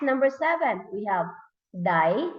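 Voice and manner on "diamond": "diamond" as di, a, mond with long pauses; read by syllables. Shown as a demonstration. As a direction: split "diamond" into three beats. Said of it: "read by syllables".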